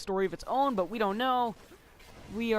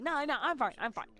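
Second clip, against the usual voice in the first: mock reassurance; 5 semitones higher than usual. Retold reassurance to the teacher.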